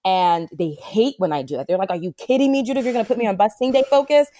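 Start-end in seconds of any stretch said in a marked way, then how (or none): 1.9-4.3 mock teen protest. Teen clients protesting to therapist.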